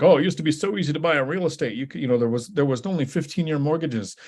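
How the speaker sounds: put-on high, old-time newsreel announcer; 1950s news reporter voice. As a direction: read it like a fifties newscaster. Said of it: "I don't know why I sound like a news reporter from the fifties".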